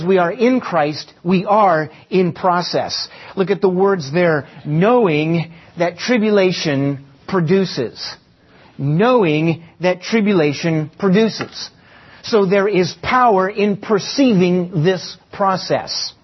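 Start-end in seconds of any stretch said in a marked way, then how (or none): 4.6-8.2 "knowing" drawn out and emphasized, then measured words; stress on knowing. Shown as a demonstration. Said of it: "Emphasis on the word knowing". 8.8-11.7 "Knowing" stretched with a swell of emphasis; stress on Knowing. Shown as a demonstration. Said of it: "Emphasis on the word knowing".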